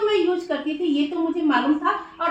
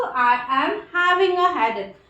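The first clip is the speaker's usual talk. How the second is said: each word of "I am having a headache" spoken slowly and clearly; slow dictation; 3 dB louder, much slower than usual. Shown as a demonstration. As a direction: read it out slowly for students to copy. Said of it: "आज के पहले तो मुझे कभी ऐसा लगा ही नहीं था". (धीमा, साफ़ उच्चारण)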